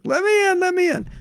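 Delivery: high pleading voice calling at the door; pleading Krishna. Retold or imitated. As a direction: beg to be let in, up high. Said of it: "And he's like".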